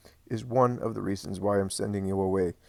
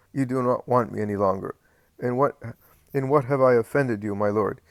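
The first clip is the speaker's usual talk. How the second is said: anguished cry; 2 semitones higher, 5 dB louder than usual. Acted. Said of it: "he cries".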